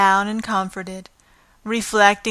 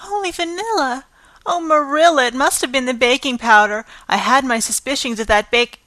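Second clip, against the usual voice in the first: flustered excuse; 5 semitones higher, 4 dB louder, faster than usual. Acted.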